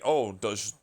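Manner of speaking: slow, drawn-out mock question. Mocking the Google question, slow and sneering. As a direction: stretch it out, mocking.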